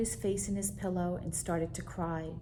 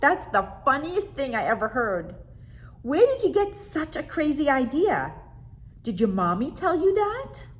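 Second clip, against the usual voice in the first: higher, louder giggly questions; amused monster; 7 semitones higher, 8 dB louder than usual. Acted. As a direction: tease him about the crazy idea. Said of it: "he cried".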